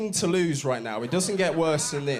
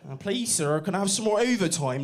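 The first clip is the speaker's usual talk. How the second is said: mock pleading orphan with a West Country accent; Oliver Twist; 5 semitones higher than usual. Poor worker begging the boss, mock-pleading orphan. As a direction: beg like a little workhouse boy. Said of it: "don't sound like Oliver Twist".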